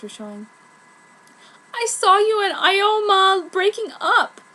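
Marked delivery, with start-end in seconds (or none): 1.7-4.4 sympathetic. Acted. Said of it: "I said very sympathetically".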